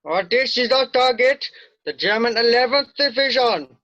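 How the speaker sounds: projecting the battle plan loud and clear; brief the officers at full voice. Acted. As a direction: Sergeant Major briefs the officers, loud and firm. Officer briefing map, outdoors projecting.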